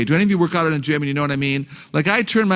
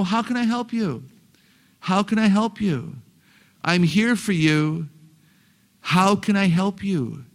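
patient helper; 3 semitones higher than usual. Shown as a demonstration. Models patient answer to complaining child.

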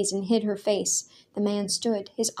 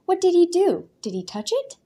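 much higher, loud burst; urgent demand; 10 semitones higher, 5 dB louder than usual. A narrator's reading. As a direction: demand the truth at once. Daniel pressing the father.

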